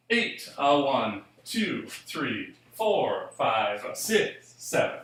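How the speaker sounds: slow count from "eight" to "seven", leaning on "eight", "two", "four"; pulsed even-count emphasis. Shown as a demonstration. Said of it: "I can do that with my pulse".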